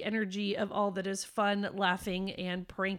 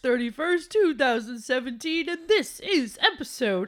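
lightly voiced dad, louder; imitating her dad; 3 semitones higher, 5 dB louder than usual. Daughter hosts the show as her dad, imitating him. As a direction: play Dad hosting, with punched-up volume. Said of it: "You need to work on Dad's voice".

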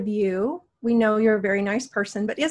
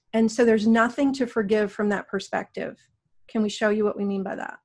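guided meditation. Acted. Guides a healing session.

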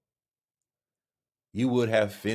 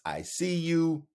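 mock fight sounds; 8 semitones higher, 5 dB louder, slower than usual.

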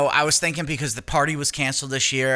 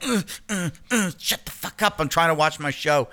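higher, exasperated mock snap; irritated snap; 5 semitones higher than usual. Jess snapping at the chattering mother, higher and exasperated. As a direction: play Jess losing patience at the chatter.

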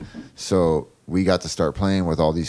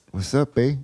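American impression; 6 semitones higher than usual. The drummer imitating how Americans talk, a laid-back dude voice. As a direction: toss off "What's up, babe?" like a SoCal dude. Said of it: "That's a good impression of Americans".

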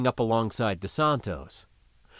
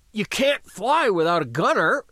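insistent raised voice; 9 semitones higher, 4 dB louder than usual. Acted. Wheezing man insisting.

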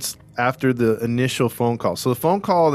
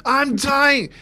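high squeaky hammed-up wail; mock dying caller; 13 semitones higher than usual. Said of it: "the person could be like".

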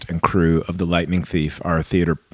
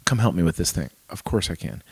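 tender reassurance; 7 dB quieter than usual. Acted. Dad agreeing to help with homework, soft and tender. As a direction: hush and reassure the child. Dad answering child's request.

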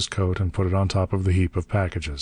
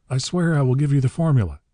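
high-pitched desperate plea; gasped oath; 7 semitones higher, 4 dB louder than usual. A narrator's reading. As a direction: swear it urgently in a raised, panicked pitch. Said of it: "he gasped".

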